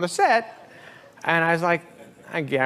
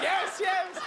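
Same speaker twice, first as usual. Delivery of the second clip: meek high-pitched yes; 4 dB quieter than usual. Retold or imitated. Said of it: "I was like".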